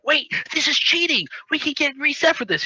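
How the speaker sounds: mock alarm; worried protest. Retelling a worried character.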